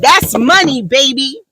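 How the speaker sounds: a hint of sass, little lift on "baby"; sassy attitude. Daughter answering a teasing kid, with light sass. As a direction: toss it off with mild swagger. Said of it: "said it with such attitude".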